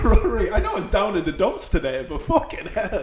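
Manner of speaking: lightly voiced Australian through laughter; a hint of mock Australian, giggling; frazzled Australian. Frazzled friend thanking Rory, lightly Australian. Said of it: "the demon infested frazzled Australian".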